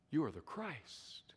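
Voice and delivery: whispered, hushed confession; reverent whisper. Acted. Peter confessing to Jesus in an awed whisper. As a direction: breathe it out like a sacred secret.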